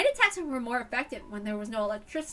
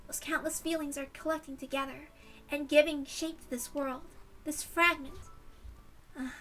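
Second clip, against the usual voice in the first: softer, hushed, contemplative voice; soft mystical monologue; 6 dB quieter than usual. Acted. Spirit speaking quietly to Rika, hushed and contemplative. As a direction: murmur it like a spirit musing to a friend.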